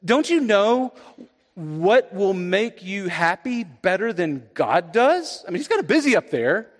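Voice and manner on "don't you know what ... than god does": sly tempter. Retold or imitated. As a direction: lure them in slowly, pitched up. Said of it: "Or what about this?".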